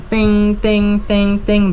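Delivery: spoken imitation of electronic dings; imitated chime. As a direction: mimic the intercom's four startup tones. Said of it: "tunog na yon".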